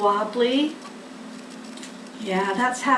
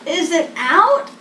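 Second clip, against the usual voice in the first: hopeful Bear; 5 semitones higher, 3 dB louder than usual. Acted. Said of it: "asked Bear".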